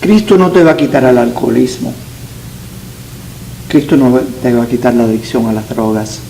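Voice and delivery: ordinary talk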